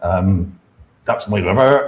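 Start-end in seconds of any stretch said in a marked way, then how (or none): 1.0-1.9 southern West Country English accent. Showing off own accent with a stock phrase: West Country accent. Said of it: "West Country".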